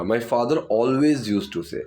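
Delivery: very slow, each word separate; slow dictation. Shown as a demonstration. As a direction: lay the sentence out for students. Teacher dictates model sentence.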